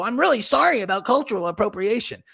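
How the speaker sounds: a hint of a simpering apology; mock apology. Host mocking someone apologizing too meekly. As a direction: lightly mimic a meek sorry voice. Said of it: "will come on and go".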